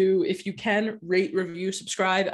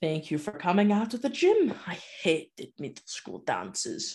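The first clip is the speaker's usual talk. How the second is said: put-on German-sounding accent with swooping pitch; 3 dB quieter than usual. Retelling a book scene, voicing Doctor Thorne: accent that sounds German. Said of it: "now this is more German".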